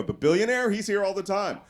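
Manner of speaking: high, loud puzzled host voice; a host who mixes up the names; confused staffer. Retold or imitated. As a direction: play the baffled restaurant host.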